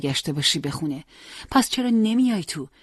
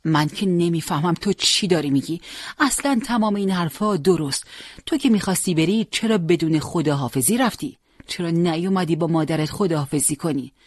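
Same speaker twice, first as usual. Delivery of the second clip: grieving mother. Acted. Mother reproaching Hossein for leaving without goodbye, rising plea. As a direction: plead and reproach, voice climbing.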